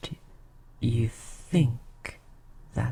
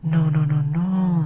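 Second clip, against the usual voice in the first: quick reassurance; 2 semitones higher, 5 dB louder than usual. Acted. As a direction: hurry to reassure him. Reassuring hurt mortal, not mocking.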